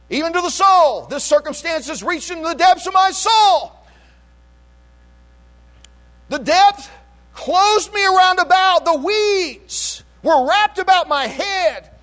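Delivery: high, impassioned scripture proclamation; full-force preaching. Real, not acted. Preacher voicing Jonah in the depths, full-force preaching. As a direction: cry the verse out to the church.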